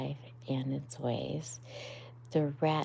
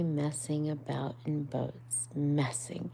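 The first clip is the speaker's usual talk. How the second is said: dreamily. Acted. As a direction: let it drift away. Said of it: "he went on dreamily".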